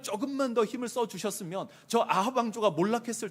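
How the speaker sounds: high, loud, insistent protest; acted indignant remonstrance; arguing with God. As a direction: argue your case hard to God. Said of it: "이렇게 따지는 겁니다".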